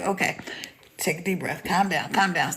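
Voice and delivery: low, soft self-talk; retold hushed pep talk; calming herself. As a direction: mutter it to yourself to settle your nerves. Talking herself down in the story.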